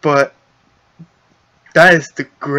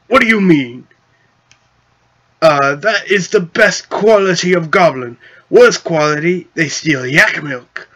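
goblin chief voice; 3 semitones higher, 3 dB louder than usual. Acted.

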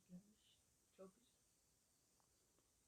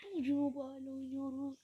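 loud teasing shout; joking shout; 6 semitones higher, 16 dB louder than usual. Pretend. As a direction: shout it over him as a joke. Brother butts in jokingly.

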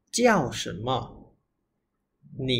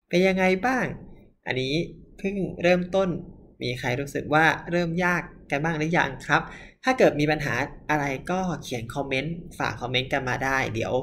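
normal talking voice

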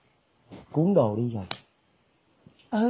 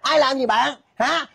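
higher-pitched defensive retort; indignant challenge; 5 semitones higher, slower than usual. Acted. Gossip challenging her accuser, indignant. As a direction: throw the accusation back.

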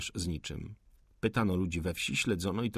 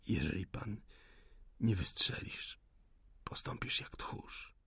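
whispered taunt; 8 dB quieter than usual. Acted. The rebel whispers his taunt at the officer, hushed. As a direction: taunt him in a dying whisper.

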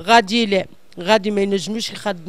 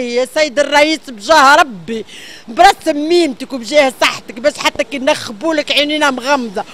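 pleading appeal; 2 semitones higher, 3 dB louder than usual. Real, not acted. Direct plea to the president.

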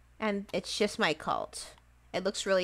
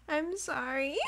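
laughing apology; 5 semitones higher, 4 dB quieter than usual. Real, not acted.

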